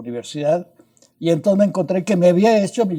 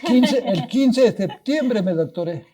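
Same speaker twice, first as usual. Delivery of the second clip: laughing; 5 semitones higher, slower than usual. Real, not acted. Laughing reveal of Mexican date.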